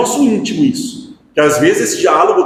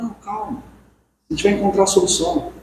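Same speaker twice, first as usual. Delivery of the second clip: calming reassurance; 3 semitones higher, 5 dB quieter, faster than usual. Acted. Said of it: "tá em desespero, é aquele choro".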